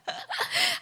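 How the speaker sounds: squealing laughter; very high laugh. Real, not acted. Laughing at own impression. (尖声大笑)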